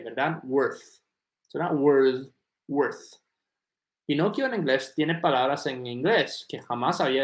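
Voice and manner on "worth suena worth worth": "worth" ending in a breathy th; "worth" with air on the th; worth drill. Shown as a demonstration. Teacher repeating "worth" for a student. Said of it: "Y esa T H con aire".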